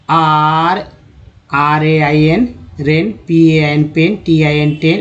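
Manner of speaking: slow, letter-by-letter spelling; slow spelling demo. Shown as a demonstration. Teacher spelling rain for the class, slowly. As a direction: spell out each letter, then the word. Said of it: "यानी कि".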